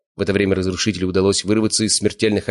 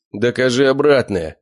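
a loud, slow shout of defiance; young man yells a dare at the angry owner; shouted back; 6 semitones higher, 4 dB louder than usual. Acted. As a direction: yell the challenge right back. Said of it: "прокричал в ответ Славик".

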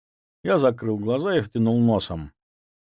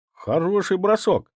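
higher, slower approving cheer; praising; 9 semitones higher than usual. Acted. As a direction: praise the throw. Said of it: "похвалил Ваня". (одобрительно)

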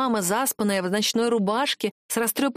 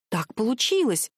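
ordinary delivery

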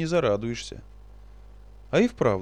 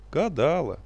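reluctant; 4 semitones higher, 3 dB louder, slower than usual. Acted. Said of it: "нехотя призналась та".

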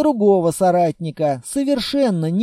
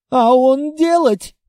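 hopeful; 7 semitones higher, 5 dB louder than usual. Acted. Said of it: "с надеждой спросил Мундалабай".

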